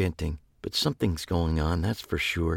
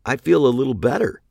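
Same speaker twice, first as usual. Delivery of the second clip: chipmunk voice; 6 semitones higher, 3 dB louder, faster than usual. Acted. Narrator on helium, chipmunk voice.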